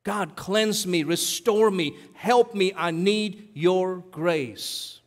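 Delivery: slow, earnest plea for grace; slow pleading prayer, last line drawn out; praying slowly. Shown as a demonstration. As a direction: pray it slowly, asking for help. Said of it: "how you and I should pray".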